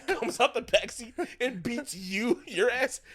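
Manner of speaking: high, worked-up comic rant; really loud. Real, not acted. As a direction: shout out the blow-by-blow, carried away. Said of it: "I'm getting really loud into it".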